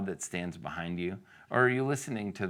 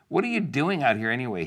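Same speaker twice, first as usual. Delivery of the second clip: quick, high, louder scolding; angry demand; 5 semitones higher, 5 dB louder, faster than usual. Acted. Older brother confronting David, angrily demanding. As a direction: demand an answer, annoyed. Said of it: "he was angry".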